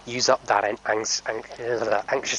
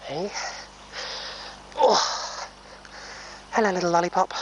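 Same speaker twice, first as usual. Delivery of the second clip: high cooing greeting; 8 semitones higher than usual. Real, not acted. Owner greeting her pony Lollipop, high cooing baby talk.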